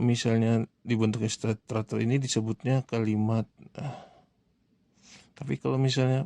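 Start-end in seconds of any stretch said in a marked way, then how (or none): none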